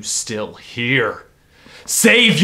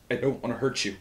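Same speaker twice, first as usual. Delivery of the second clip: louder, rising desperate plea; alarmed pleading; 3 semitones higher, 5 dB louder, much faster than usual. Acted. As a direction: beg them to back away. Visitor comes too close.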